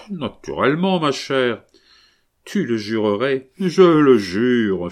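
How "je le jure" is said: drawn out, slow and loud, with a laugh in it; a mock oath tossed off with a laugh. A narrator's reading. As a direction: swear it lightly, laughing it off. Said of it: "fit Camille en riant".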